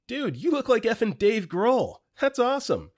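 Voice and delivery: high-pitched, excited call-out; retold excited yell. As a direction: gush it loudly across a dance floor. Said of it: "I yelled that exact thing at him".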